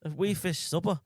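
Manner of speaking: put-on Scottish accent. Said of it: "talk Scottish".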